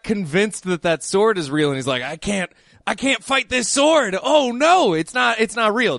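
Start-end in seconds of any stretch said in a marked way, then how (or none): 2.0-6.0 mildly hammed-up panic, pitch rising on "oh no"; mock dismay. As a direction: play a man fooled into fearing a sword. Acting out the fooled swordsman.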